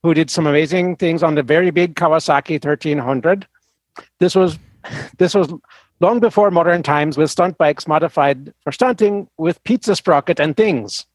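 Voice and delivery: put-on reading in a Swedish accent. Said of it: "the horrible Swedish accent".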